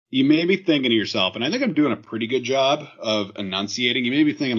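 talking around clear aligners; words slurred by aligners in the mouth; marbles in mouth. Real, not acted. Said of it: "Does Cam have marbles in his mouth today?".

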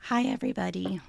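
hoarse, croaky throat; croaky voice from a sore throat; frog in throat. Real, not acted. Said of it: "It sounds like I have a frog in my throat".

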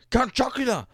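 high, far-off shout of Count Chocula; bad Colonel Gentleman impression. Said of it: "Colonel Gentleman going".

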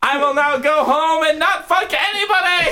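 very high, gleeful squeal; squeaky monster voice. Acted. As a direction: crow it like a smug imp.

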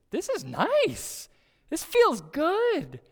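high, loud and slow, glowing with delight; overjoyed. Retold or imitated. Pastor recalling thanking his son's friend, high overjoyed. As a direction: savour the moment out loud.

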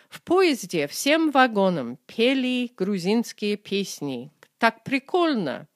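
lightly voiced teen enthusing about a train; a hint of a chatty teenager; teenager gushing. Shown as a demonstration. Teacher voicing a teen about the train, lightly gushing. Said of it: "This is what your teenager says".

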